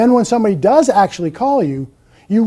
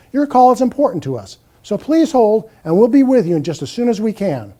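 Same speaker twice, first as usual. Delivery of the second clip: woman's voice; 2 semitones higher than usual. Shown as a demonstration. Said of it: "A woman's voice".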